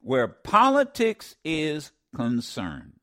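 "Where politics is concerned" said slowly, word by word; slowed emphasis. Shown as a demonstration. Radio host repeating the guest's words slowly to the audience. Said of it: "repeats phrase slowly".

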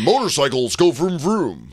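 mock stupid American-guy voice; dumb American man. Foreigner imitating stupid-sounding American men, mock American voice. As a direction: parody a dim American man. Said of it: "you sound like this".

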